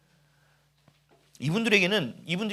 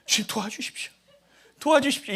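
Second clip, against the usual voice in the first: laughing, rising plea for help; hammed-up cry for help; pleading prayer; 6 semitones higher than usual. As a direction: beg the Lord, half laughing. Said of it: "기도를".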